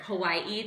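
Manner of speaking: Hawaii with the emphasis on the final I; stress on last I. Real, not acted. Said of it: "You put the emphasis on the".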